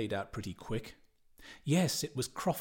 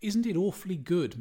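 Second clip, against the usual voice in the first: higher, louder eager question; 7 semitones higher, 5 dB louder than usual. Acted. Bloom urges his companions, eager and higher. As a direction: press them to share the joke. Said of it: "Mister Bloom said eagerly".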